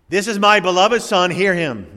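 the Father's voice booming over the mountain; thundering voice of God. Acted. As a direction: let it thunder down from the sky. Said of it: "thunders down".

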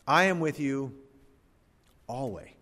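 pause, then let "always" stand alone; stress on ALWAYS. Shown as a demonstration. Preacher shows a promise's richness, setting ALWAYS apart. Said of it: "Just emphasize a different word".

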